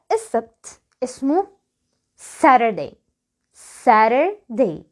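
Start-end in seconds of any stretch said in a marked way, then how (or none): 2.4-2.9 Saturday with a light flapped T, like 'Sarerday'; American flapped T. Shown as a demonstration. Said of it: "زي ما انت سامع كده". 3.8-4.8 Saturday slowly split, 'Sarer-day', T tapped light; American flapped T. Shown as a demonstration. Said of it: "دي خفيفة شوية".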